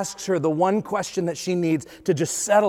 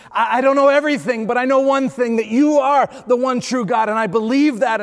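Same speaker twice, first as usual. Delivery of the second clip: louder and higher, a heartfelt declaration of faith; fervent confession; 5 semitones higher, 4 dB louder than usual. Acted. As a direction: let Martha's answer ring out with conviction.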